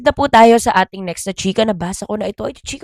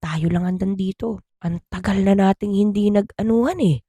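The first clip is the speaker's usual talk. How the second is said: much softer, murmured to the wife; sly quiet husband; 8 dB quieter than usual. Retold or imitated. Father murmuring to his wife alone, soft suggestive voice. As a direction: coax her quietly, suggestive. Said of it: "Sabi daw niya dun sa asawa niya".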